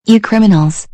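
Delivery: yelling an insult; angry shout. Acted. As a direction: spit it out loudly.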